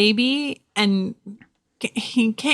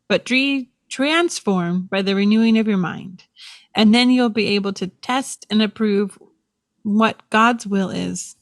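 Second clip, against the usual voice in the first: calm, measured Bible reading; scripture reading; 2 semitones lower than usual. Acted. Reading Romans to her podcast friend, measured and reverent. Reads Bible verse aloud.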